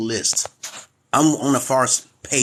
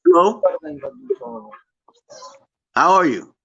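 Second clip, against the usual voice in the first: raised, carrying greeting; loud hello; 6 dB louder than usual. Real, not acted. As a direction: call out loud and high to a new stranger. Calling out to a stranger on video chat.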